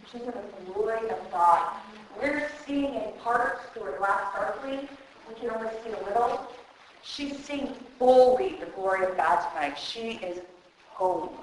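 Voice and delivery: soft, low voice, slowing with feeling; hushed reverence. Real, not acted. Telling mourners Jan is home with God, hushed. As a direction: speak softly and low, in awe of glory. Speaking of Jan, who has died.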